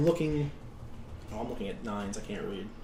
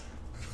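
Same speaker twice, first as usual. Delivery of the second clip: cackle; 19 dB quieter than usual. Acted. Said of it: "kinda cackles".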